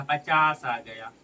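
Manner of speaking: slow, drawn-out statement of the answer; slow reveal. Shown as a demonstration. Teacher reveals the answer to the class, slowly. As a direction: let each word land slowly. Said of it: "teacher reveals the answer".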